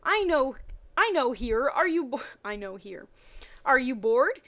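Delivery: hesitant and halting; a bit shy. Acted. Brock shyly asking Misty if she's bored, hesitant. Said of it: "he said kinda shy-like".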